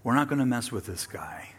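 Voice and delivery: quiet, confiding, partly whispered; hushed guards' reply. Acted. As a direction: murmur it like a confession. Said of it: "they heard him speak and they said".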